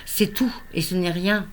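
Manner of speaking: restrained love poem, phrase by phrase; poetry recital. Acted. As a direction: recite verse with pauses, letting line endings fall. Reads second love poem. (lecture de poème, retenue)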